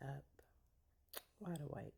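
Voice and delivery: hushed whisper so nobody wakes; library whisper. Real, not acted. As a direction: whisper softly, people asleep nearby. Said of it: "Yes, I'm whispering 'cause other people are asleep".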